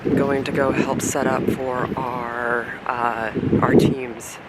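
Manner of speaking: talking over wind noise outside; windy outdoors. Real, not acted. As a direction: speak out in the wind. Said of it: "Sorry for the wind".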